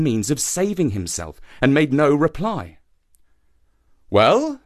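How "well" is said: anxious. A narrator's reading. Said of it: "said the shark anxiously".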